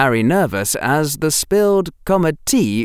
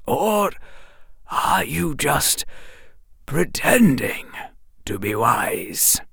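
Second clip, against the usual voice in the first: slow, probing, fading to a whisper; slow suspicious old wizard; slowly; 5 semitones higher, 4 dB quieter, slower than usual. Acted. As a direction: lean on each word, suspicious. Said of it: "Dumbledore said slowly".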